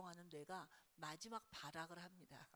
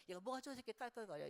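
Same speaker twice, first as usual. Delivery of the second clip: mock scolding; 4 dB louder, much faster than usual. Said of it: "이런다고요".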